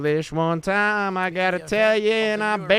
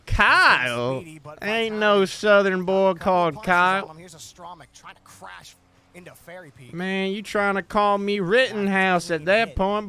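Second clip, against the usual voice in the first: put-on southern accent. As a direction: play a mock Southern good old boy. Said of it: "as this accent".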